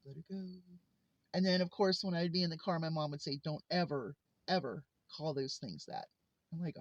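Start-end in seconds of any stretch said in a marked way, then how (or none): 0.1-0.4 very soft retold mom's warning; hushed, for the child only; discreet warning. 3.4-6.1 low, softer retold scolding; lowered voice, leaning on each ever; stern mother. Mom's stern private warning, retold.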